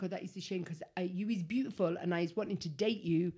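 low, soft, badly faked London accent; muddled London accent, quietly put on; rubbish London accent. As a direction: imitate a London lad, not very convincingly. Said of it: "it's because it's a London accent".

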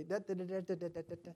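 rattled-off "da-da-da" syllables; fake Spanish gibberish. Telling how his college friend spoke Spanish, mock babble. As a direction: imitate a stream of foreign chatter on "da". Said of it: "hear him say stuff every now and then".

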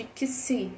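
"que si" said as a k-sound running into an s. Shown as a demonstration. Teacher showing learners the sound X can have, KS sound in "que si". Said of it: "ter o som de".

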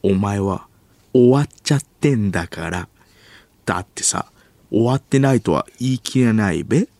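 clumsily put-on Tokyo accent; odd standard Japanese. Kansai actor rehearsing drama lines, botched Tokyo accent. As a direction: overdo the eastern endings, strange intonation. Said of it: "発音おかしい".

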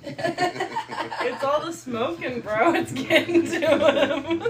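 laughing. Real, not acted. Laughing while teasing.

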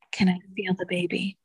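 soft unvoiced whisper of a little boy; whispered child's question. Mother retelling her son's question to the listener, whispered. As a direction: whisper it the way her son asked. Son asks to feel baby.

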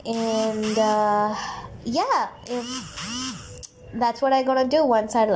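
reading her notes aloud. Real, not acted. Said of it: "I'm actually reading what I wrote on my notepad".

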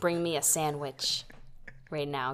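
low mock-Southern husband giving orders; problematic white man. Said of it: "turns into a problematic white man".

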